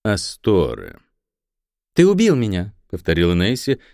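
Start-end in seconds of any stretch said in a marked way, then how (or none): 1.9-2.7 hateful accusation. A narrator's reading. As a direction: spit out убил with hatred. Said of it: "ненависть холодным ручьём".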